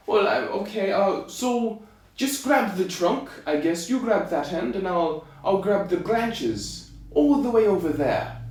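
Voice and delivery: slightly high, hesitant tailor; lightly voiced little tailor improvising instructions; tailor's voice. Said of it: "the tailor said to the giant".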